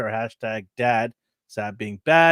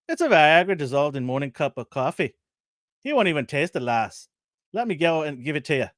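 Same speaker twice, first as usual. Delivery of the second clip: Irish doctor; 2 semitones higher than usual. Acted. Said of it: "Let me get my Irish accent out".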